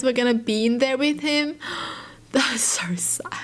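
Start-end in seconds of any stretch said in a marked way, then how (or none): 2.3-3.3 real sad whisper; whispered sadness. Real, not acted. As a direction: whisper That's so sad, barely voiced. Reacting to a sad story.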